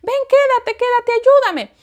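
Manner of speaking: high, slow, frantic begging; high anguished plea, slowed at the start; desperate pleading. Retold or imitated. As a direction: cry out to husband and child to stay. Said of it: "diciendo el nombre de mi esposo".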